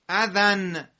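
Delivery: اذن read as izan with final n; tanwin read as -an. Shown as a demonstration. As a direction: say اذن ending in a clear nasal n. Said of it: "ممکنه که تنوین نصب ... الف مدی بیاد".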